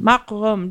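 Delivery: "Rome" with one long vowel, falling at the end; settled pronunciation. Shown as a demonstration. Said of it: "That's how I would say it".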